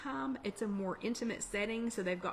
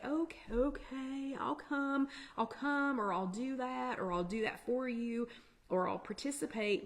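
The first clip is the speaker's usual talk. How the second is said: reluctant people-pleasing agreement; 4 semitones higher than usual. Acted. People afraid of missing out saying yes, reluctant agreement. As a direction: agree to everything, a bit higher than usual.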